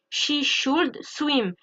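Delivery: "she should swim" very slow, each word apart; slow model sentence. Shown as a demonstration. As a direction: spell out the example slowly. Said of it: "example sentence modelled".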